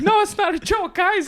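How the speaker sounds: very high-pitched pleading impression; Dylan Sullivan. Comic imitates host pleading with the crowd, high-pitched. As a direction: squeak it out like a big lovable guy. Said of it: "he's got a really high-pitched voice".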